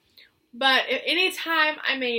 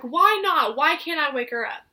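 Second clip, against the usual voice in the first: upset protest; 3 semitones higher, 4 dB louder than usual. Retold or imitated. Mom protests to the nurse, louder and upset. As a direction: demand an answer, rising up in alarm.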